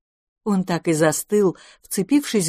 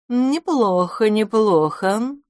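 savouring purr; 4 semitones higher, much slower than usual. Acted. Cat sizing up lunch.

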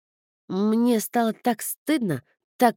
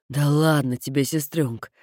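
carefree brother; 4 semitones lower than usual. Acted. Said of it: "беспечно отозвался Кода".

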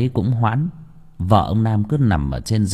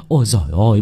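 called out; 4 dB louder, faster than usual. Acted. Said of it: "miệng hô to tất tưởi".

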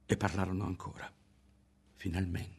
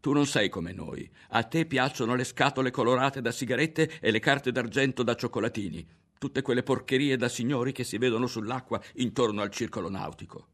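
angry accusation; 5 semitones higher, 4 dB louder than usual. Acted. Berto continues shouting accusation.

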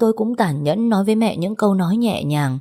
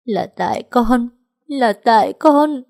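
high, slow wailing lament, building louder; mournful self-blame; 6 semitones higher, 4 dB louder, slower than usual. A narrator's reading. Daughter blaming herself beside her mother, wailing slowly. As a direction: wail it out, beating your chest. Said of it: "phát ra những tiếng nói thê lương".

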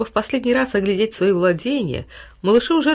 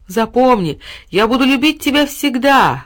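higher, louder call back; shouted promise; 5 semitones higher, 4 dB louder, slower than usual. A narrator's reading. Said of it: "крикнул ей малыш". (крик, выше и громче)

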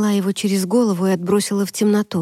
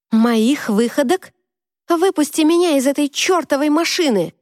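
angry outburst; 7 semitones higher than usual. Acted. Angry quarrel in the car.

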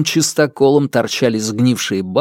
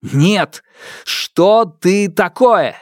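desperate demand; 6 semitones higher, much slower than usual. Acted. Hero demands again.

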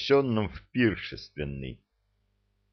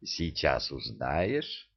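low, slow teasing; sly promise; 6 semitones lower, 7 dB quieter, slower than usual. Acted. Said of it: "пообещала Марьюшка".

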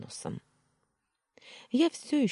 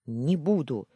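blurted refusal; 5 dB louder than usual. Acted. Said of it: "выпалила я".

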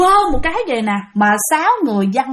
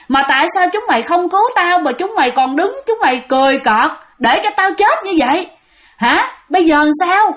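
mildly angry reproach, pitch often raised; fierce accusing; 3 semitones higher than usual. Acted. Possessed soldier confronts comrades who left him dying, mildly fierce. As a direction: reproach them as a wronged dead man, lightly acted. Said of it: "gương mặt rất là hung dữ và nói".

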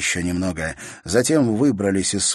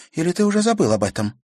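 higher reproachful question, stress on забыл; reproachful sister; 11 semitones higher, 4 dB louder, faster than usual. A narrator's reading. Sister reproaching brother about the funeral, pointed. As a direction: needle him with забыл.

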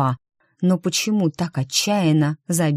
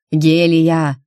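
louder call from the doorway; shout; 5 dB louder than usual. A narrator's reading. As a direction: call her name across the room. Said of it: "крикнул застывший в проёме". (громкий окрик)

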